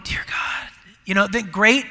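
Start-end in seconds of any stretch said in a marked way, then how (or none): 0.0-0.7 mock pious prayer. Shown as a demonstration. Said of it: "if that's why you go".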